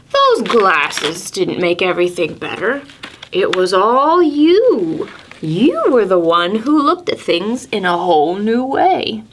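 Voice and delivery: lightly voiced wise old owl reassuring.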